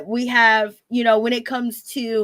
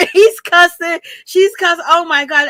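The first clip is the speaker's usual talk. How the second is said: higher, louder amused outburst; excited outburst; 7 semitones higher, 5 dB louder than usual. Real, not acted. Host reacting to the couple cussing, excited. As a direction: exclaim it, half laughing.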